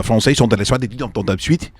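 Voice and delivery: mock French phrase, slow; fake French. Shown as a demonstration. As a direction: throw in some made-up French. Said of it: "That's my fake French".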